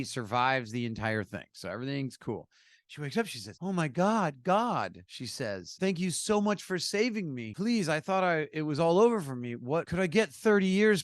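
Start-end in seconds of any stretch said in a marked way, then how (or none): 3.6-11.0 higher-pitched mock gratitude and pleading; pleading woman. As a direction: lightly act a woman begging God. Woman pleading with God in joke.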